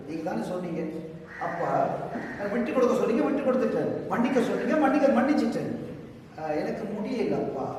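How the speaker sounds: soft, intimate complaint to Father God; pleading like a friend. Shown as a demonstration. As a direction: pour out your heart to a friend, near tears. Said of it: "நான் ஒரு friend மாதிரி பேசுறேன்". (அப்பாவிடம் மெதுவான முறையீடு)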